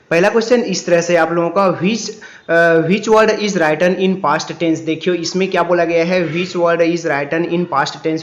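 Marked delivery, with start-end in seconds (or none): 2.9-4.8 slow read-aloud. Shown as a demonstration. Teacher reads exam question aloud. 6.3-8.2 repeating the question word by word, very slowly; a second slow reading of the question for the class; slow read-aloud. Shown as a demonstration. Teacher repeats exam question.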